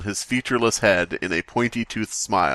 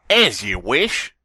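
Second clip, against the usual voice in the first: slow spooky voice; 3 dB louder, slower than usual. Acted. Slender Man's reply.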